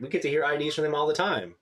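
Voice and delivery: dry, sarcastic remark. Real, not acted. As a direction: say it with a roll of the eyes. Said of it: "I say with sarcasm".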